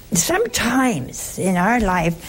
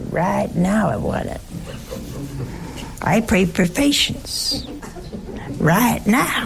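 Southern US accent, slow drawl on "Right now". Shown as a demonstration. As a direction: lean into a Southern drawl, stretching "Right now" a little and ending on a chuckle. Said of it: "when you say it southernly".

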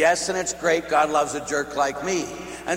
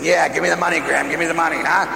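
louder, eager mock greed; greedy kid's real thought; 3 semitones higher, 6 dB louder, faster than usual. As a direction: blurt it out like a grabby grandchild. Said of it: "But they're really saying".

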